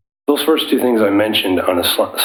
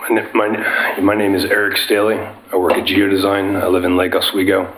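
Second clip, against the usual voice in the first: hoarse voice. Real, not acted. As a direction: gravelly voice from a cold. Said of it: "excuse me for my gravelly voice".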